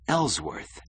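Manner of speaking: high, falling exclamation; shocked gasp. A narrator's reading. Keating learns of the appointment, gasping. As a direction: gasp the name in astonishment. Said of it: "gasped Keating".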